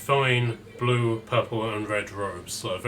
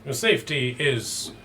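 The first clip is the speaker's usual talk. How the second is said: Vasily von Holt; 3 semitones higher than usual. Acted.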